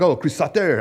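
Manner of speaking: lightly imitated French sneer; mock French accent. Pastor imitating angry critics in a light French accent. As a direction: say the name the French way, Chris Sau-TAY. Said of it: "I don't know why they're French".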